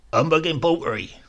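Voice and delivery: raging darkly. Acted. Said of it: "he used to rage darkly".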